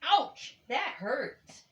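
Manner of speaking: high, loud mock ouch; storybook yelp of pain; yelled ouch. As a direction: yelp as if stung on the nose. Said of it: "yelled Bear".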